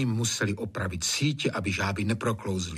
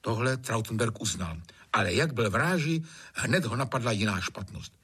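usual speaking voice

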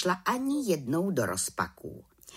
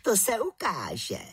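aunt witch, ominous; 7 semitones higher, slower than usual. A narrator's reading. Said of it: "řekla teta Bimbula".

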